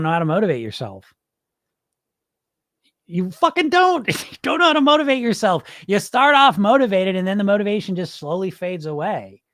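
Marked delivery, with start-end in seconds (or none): 3.1-7.9 much higher, laughing through it; laughing tease. Real, not acted. Coach laughing at followers who can't motivate themselves.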